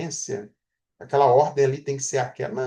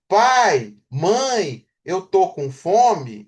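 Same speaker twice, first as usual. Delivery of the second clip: slow and deliberate, louder on Pai; slow, in order; 4 dB louder, much slower than usual. Shown as a demonstration. Teacher modelling the correct word order, slow and deliberate. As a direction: spell out the right order, word by word. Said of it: "essa coerência na ordem".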